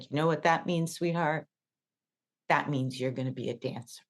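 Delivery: soft reassuring teacher voice; gently comforting a crying student; tender. Retold or imitated. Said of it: "And he said".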